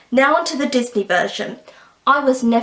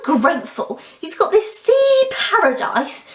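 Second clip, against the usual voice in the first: mocking parent voice; 8 semitones higher than usual. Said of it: "she's saying".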